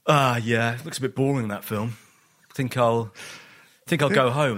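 casual, offhand put-on cool; feigned nonchalance. Terrified boy excusing himself from the film, feigned nonchalance. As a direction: play it cool to hide the fear. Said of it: "what I thought was, like, a cool, nonchalant way".

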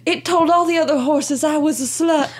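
lightly voiced confessing horse; mock horse. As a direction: play the horse deadpan and silly. Playing the horse absurdly.

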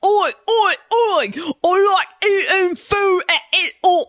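put-on loud, high Australian accent shouting oi. Chelsea showing off her Australian accent to the callers, loud and high. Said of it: "I do an Australian accent".

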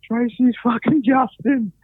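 high, slow imitated wail; mild mock wail through tears; mock bawling. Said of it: "bawling her eyes out".

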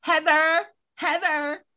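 high, exasperated protest; exasperated scolding. Acted. Rebuking Heather for excusing it, high and exasperated.

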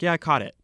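light, unaggressive vowel in CAUGHT; casual Michigan vowel. Shown as a demonstration. Showing casual Michigan talk to somebody, CAUGHT almost like "cot". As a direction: CAUGHT said on the fly, close to "cot". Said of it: "if you're casually talking to somebody".

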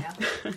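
soft savoring moan; moan of pleasure. Real, not acted. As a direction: quietly moan over a mouthful. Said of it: "gonna stop moaning at some point".

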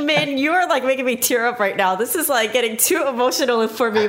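mock-overwhelmed, laughing through it; teary laughing gush. Host telling guest he's making her tear up, laughing. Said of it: "I'm like".

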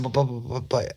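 rapid high stammer on one word; excited stuttering. Retold or imitated. Suspect interrupting the detective, excited stutter. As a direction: imitate someone too worked up to get past the first word. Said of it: "he, all stuttering. He's so excited".

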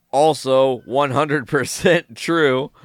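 slow, laughing emphasis; laughing, drawn out. Real, not acted. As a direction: laugh through the punchline. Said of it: "repeated punchline".

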